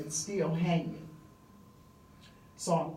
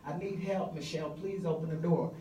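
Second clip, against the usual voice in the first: desperate calling out. Retold or imitated. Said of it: "I'm screaming her name".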